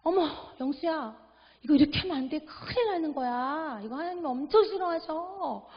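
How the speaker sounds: high, startled mother scolding gently; startled pastor's wife. Retold or imitated. Pastor's wife, startled, scolding her son over the torn doll. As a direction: gasp it out like a shocked mom. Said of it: "너무 놀래가지고 뭐라 그러셨냐면".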